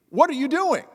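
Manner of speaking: high, loud policeman's mock shout; imitating a yell. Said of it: "He gets to me and starts yelling".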